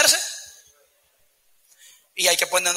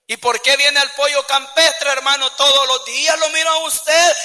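nosy question; 5 semitones higher than usual. Acted. Nosy member questions brother.

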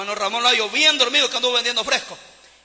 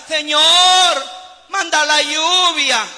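long drawn-out mock plea; mock prayer cry; 3 semitones higher, much slower than usual. Preacher mimics someone praying at home for rain, calling out. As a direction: call it out slowly, stretching each phrase.

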